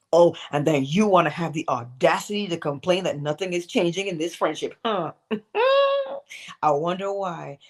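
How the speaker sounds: mocking, needling tone with a scoff; sassy self-scolding. Speaker mocking her own inner complaining, sassy. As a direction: tease yourself for the nerve of it. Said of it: "I say it like this".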